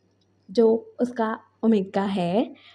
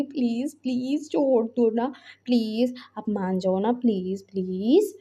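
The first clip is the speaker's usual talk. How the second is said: sweet pleading; slower than usual. Retold or imitated. Husband begging his brother-in-law to let go, sweetly pleading. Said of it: "बहुत प्यार से बोल रहा था".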